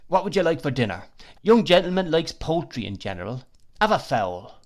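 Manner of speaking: pushy, confiding waiter patter; confidential waiter. A narrator's reading. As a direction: advise the young guest with chummy confidence. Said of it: "in a tone of confidence".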